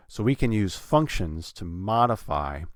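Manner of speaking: "functions" and "modify" both stressed on first syllables. Shown as a demonstration. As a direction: lean on "functions", then "modify". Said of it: "have them modify".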